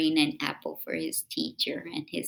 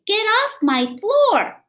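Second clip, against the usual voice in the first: high, sharp scolding mom voice; scolding mother; 14 dB louder, slower than usual. Acted. Mother scolding her child about the floor, high and stern. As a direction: play the mother telling him off. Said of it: "She would say".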